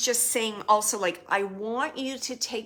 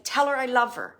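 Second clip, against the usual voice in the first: firm and insistent; forceful; 3 semitones higher, 6 dB louder than usual. Shown as a demonstration. Showing how the spirit insisted to the sitter, forceful. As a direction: press each word home. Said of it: "it's like".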